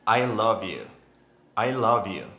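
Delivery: loud, clear I love you; said aloud. Shown as a demonstration. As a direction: say it out loud, projecting. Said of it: "Digan la frase en voz alta".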